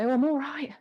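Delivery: slightly winded reply. Pretend.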